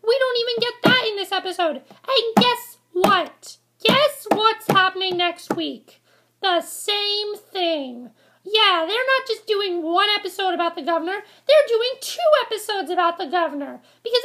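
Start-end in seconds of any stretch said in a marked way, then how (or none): 1.8-8.1 drawn-out, very slow teasing buildup; sarcastic slow reveal. Real, not acted. To viewers about next week's episode, slow sarcastic reveal. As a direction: stretch each word out to mock the letdown.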